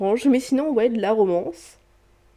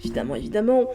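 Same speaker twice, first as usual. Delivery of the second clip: Évidemment, évidemment in a lilting, playful sing-song; a teasing sing-song évidemment at her own expense; 2 semitones higher, much faster than usual. Real, not acted. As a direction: repeat Évidemment, évidemment as a cheeky little tune. Playful repeat of her own aside.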